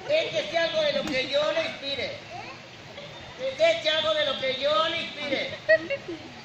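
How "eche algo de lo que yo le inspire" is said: slow, drawn out. Acted. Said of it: "repeated slower".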